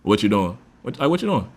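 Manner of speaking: easygoing question at an everyday pitch; casual, calm tone. Shown as a demonstration. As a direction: ask it casually, no pressure. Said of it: "calm tone".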